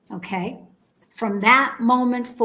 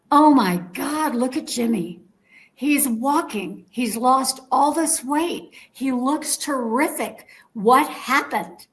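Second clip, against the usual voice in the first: amazed gasp; 4 semitones higher than usual. Retold or imitated. Whispering to the lady next to her, amazed.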